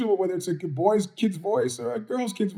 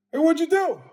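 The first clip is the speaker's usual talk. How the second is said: retold demand; 10 semitones higher, 5 dB louder than usual.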